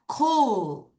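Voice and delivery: "Cool" with a drawn-out oo; long OO. Shown as a demonstration. Teacher asking everyone to repeat, "Cool" with a long oo. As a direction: stretch the oo in "Cool" for learners. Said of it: "두 개 있으면 길게 우 발음이에요".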